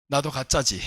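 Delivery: low, soft testing question; quiet challenge. Retold or imitated. Pastor quietly challenging the possessed woman, low and soft. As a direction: ask it low and soft, eyes locked. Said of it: "딱 가서 눈 보며 그랬습니다".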